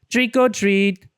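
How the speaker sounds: loud, high jump-scare shout; Mister Mole shouting to spook Franklin. A narrator's reading. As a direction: burst out to startle. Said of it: "shouted Mister Mole".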